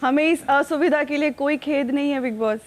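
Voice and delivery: mock-official pure Hindi apology; lofty bureaucratic Hindi, tongue in cheek; formal pure hindi. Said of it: "क्लिष्ट हिंदी में कहना चाहेंगी".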